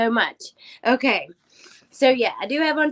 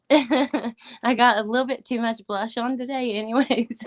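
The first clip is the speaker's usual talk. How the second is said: laughing through tears; 3 semitones higher than usual. Real, not acted. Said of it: "I'm trying".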